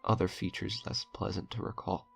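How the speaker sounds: measured, grave reading of a dark tale; horror story narration. A narrator's reading. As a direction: read it like a confession from a doomed man.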